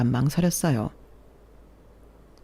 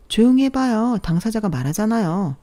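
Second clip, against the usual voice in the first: hushing coworker; 6 semitones higher, 3 dB louder than usual. Acted.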